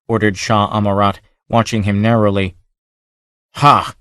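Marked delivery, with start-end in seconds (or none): 3.5-3.9 wolfish bark of a laugh. A narrator's reading. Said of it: "like the bark of a timber wolf".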